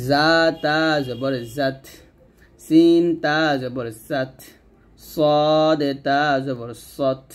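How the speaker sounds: slow spelling, hissed start and breathy final ত in "সাত"; hams drill, sibilants. Shown as a demonstration. Teacher demonstrates whistling letters, "সত" slow with released breath. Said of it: "জিহ্বাটা নিচে দাঁতের মাঝে লাগিয়ে".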